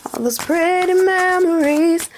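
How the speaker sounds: the same line breathed as a whisper. Acted. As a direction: whisper the lyric intimately. Whispered repeat of the sung line.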